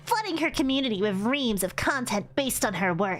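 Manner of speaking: sweetly menacing boss voice; yandere voice. Acted. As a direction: purr it like a sweet, dangerous boss. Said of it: "I'm giving her a yandere sort of voice".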